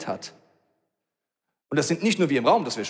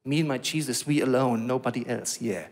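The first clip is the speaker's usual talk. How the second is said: selbstverliebter Egoist; 4 semitones lower than usual. Pretend. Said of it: "In der schlechten Variante, ja, dann bist du geistig so". (selbstgefälliger Einzelgänger, leiser werdend)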